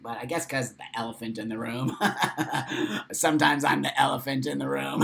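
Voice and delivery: laughing through the words. Real, not acted. Joking to viewers about the elephant, laughing. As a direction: giggle at your own pun.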